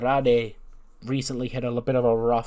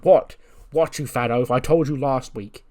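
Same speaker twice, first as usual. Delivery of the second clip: mildly annoyed, louder on the opening; irritated rebuff; 2 semitones higher, 6 dB louder than usual. Acted. Waller rebuffs Otis as he approaches, mildly irritated. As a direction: brush him off with mock irritation.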